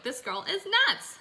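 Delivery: high, put-on voice of a doubting viewer; mock viewer. Coach voicing what viewers think of her, high mock voice. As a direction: play the skeptical audience. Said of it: "you're just like".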